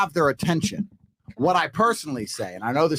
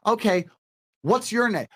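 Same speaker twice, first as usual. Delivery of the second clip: higher-pitched, engaged "okay" leading into a question; interested reply; 5 semitones higher than usual. Shown as a demonstration. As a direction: imitate her showing interest. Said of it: "If she goes".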